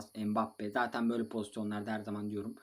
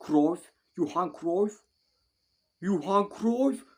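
rising, louder shout of the name; excited cheer; 8 semitones higher, 10 dB louder, slower than usual. Real, not acted. Gamer cheering his striker, an excited rising shout. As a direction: cheer him on as he breaks through.

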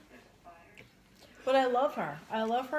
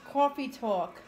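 put-on New York accent; 3 dB louder, slower than usual.

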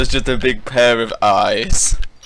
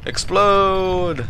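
mock command; 4 semitones higher than usual. Urging the boss to explode.

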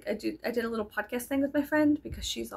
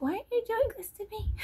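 much higher, whiny wounded question; mock whiny plea; 13 semitones higher than usual. Vlogger imitates her hurt reaction, high whiny plea. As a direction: wail it like a hurt little kid. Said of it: "it was like".

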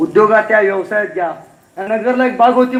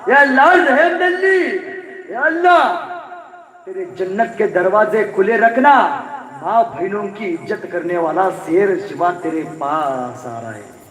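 Aurangzeb's prayer; slower than usual. Acted. Aurangzeb kneeling and thanking God, slow and solemn. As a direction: pray slowly, in awe. खुदाचे आभार मानत म्हणाला.

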